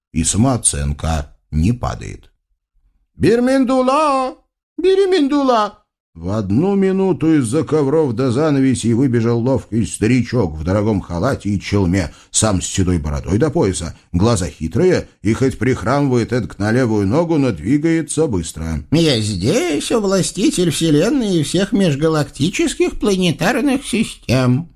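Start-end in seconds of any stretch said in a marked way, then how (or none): 3.2-5.8 calling out. Acted. Sultan calls his flatterer. 18.9-24.7 put-on high, fawning old man's voice; old flatterer. Flatterer answers sultan.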